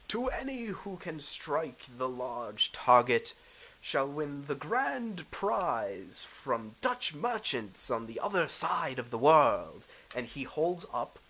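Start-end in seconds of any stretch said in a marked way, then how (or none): 0.1-9.8 slow, grandly proclaimed contest call; boisterous announcer. Acted. Game master as announcer luring archers to the target, boisterous. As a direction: draw it out like a fairground announcer. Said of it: "this big boisterous announcer ... keeps lauding and goes".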